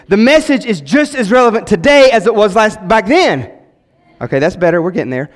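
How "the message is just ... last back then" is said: raised, ringing pulpit line, pitched higher; louder restatement. Shown as a demonstration. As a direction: call it out to draw an amen. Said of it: "that was a good place for an amen".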